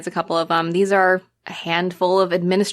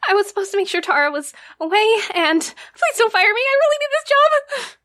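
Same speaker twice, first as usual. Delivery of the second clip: very high-pitched, hammed-up blubbering; acted panicky plea to the boss; tearful pleading. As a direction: beg for the job, pitch climbing to a squeal. Tearful employee pleading not to be fired.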